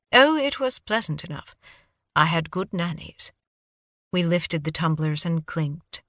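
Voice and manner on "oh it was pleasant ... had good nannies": put-on light British accent, dry; a hint of British accent, deflecting. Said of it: "Your accent".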